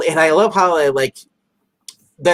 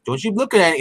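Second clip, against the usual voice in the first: mock scold; 8 semitones higher than usual. Quoting the blinds standoff.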